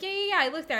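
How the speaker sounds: lightly mocked breezy dismissal; dismissive boyfriend. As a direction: wave her off, lazily.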